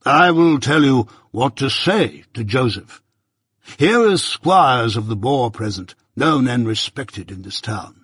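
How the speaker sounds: lightly voiced pompous old busybody; a hint of a self-important uncle holding forth; Pumblechook, pompous. Pumblechook lecturing young Pip at breakfast, lightly pompous voice.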